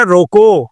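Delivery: روکو as a complete command, then stop; pause after روکو. Shown as a demonstration. Teacher showing how a breath changes meaning, full stop after روکو. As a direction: say روکو and break the breath right there. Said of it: "میں صرف سانس توڑتا ہوں".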